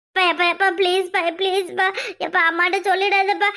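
loud, desperate begging to father; frantic child pleading loudly. Acted. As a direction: beg him not to tell, voice pushed up. Child begging father not to tell.

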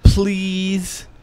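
high pleading, then a lightly hammed-up plea; mock-dramatic plea, half sung; dramatic reading of Ben. Podcast host hams up his cohost's plug as a pleading plea. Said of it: "dramatical reading of Ben plugging himself".

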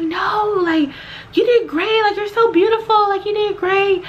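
high, gushing imitation; reassuring. Man reassuring the auditioner, high gushing praise.

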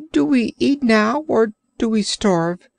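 high, pleading creature voice; plaintive Orc. Acted. Hungry Orc pleading with the sailor, high plaintive voice. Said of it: "asked plaintively".

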